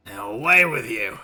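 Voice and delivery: loud dismissal in an English character voice; dismissive character. Acted. Old sailor sending visitors away, dismissive. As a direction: shoo them away firmly.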